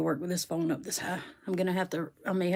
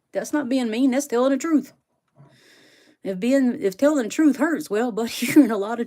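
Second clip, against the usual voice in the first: mock-indignant retort; 4 semitones higher, 5 dB louder than usual. Real, not acted. Retorting to Phil's jab.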